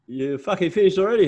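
a lightly voiced blunt old fella; old farmer. Old farmer surprised at the workers, hammed-up gruff voice.

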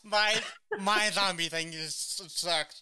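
laughing. Real, not acted. Laughing self-deprecation.

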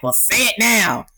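high mock-angry snap, lightly done; imitating a yelling mother. Mother yelling at her scared child, mock angry. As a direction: bark the demand like an old-school parent. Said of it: "screaming and yelling and going like".

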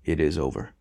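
even voice. A narrator's reading. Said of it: "he said in an even voice".

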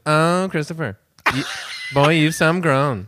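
light Maritimes granny imitation; New Brunswick grandmother accent. Grandson quoting his Grammy, light New Brunswick accent. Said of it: "My Grammy from New Brunswick talks like that".

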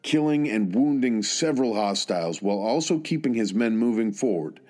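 measured military history narration; scripted narration. Real, not acted. Narrator telling listeners of a soldier's service, measured scripted narration. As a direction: narrate in steady, deliberate phrases with set pauses.

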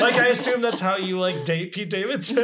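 giggling through the telling; amused, half laughing. Real, not acted. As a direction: laugh while you tell it. Mocking how dating Pete goes.

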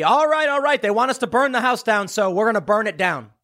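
mock Democrats giving in to activists. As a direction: give in with a weary sigh, mocking. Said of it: "So the Democrats say".

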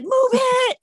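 high, loud bossy shout; yelling. Pretend. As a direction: bark the order. Acting yelling at family.

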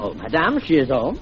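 put-on Parisian accent; French accent. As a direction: ask politely in a stage French accent. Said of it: "talking like this with a French accent".

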